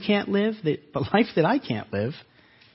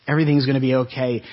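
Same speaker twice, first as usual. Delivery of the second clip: fast, louder, tossed-off reassurance; quick hollow platitude; 4 dB louder, much faster than usual. Retold or imitated. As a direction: rattle it off like an empty phrase. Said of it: "We say those things".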